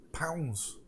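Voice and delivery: hushed dramatic whisper. Acted. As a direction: breathe the word out. GM whispering skeleton action.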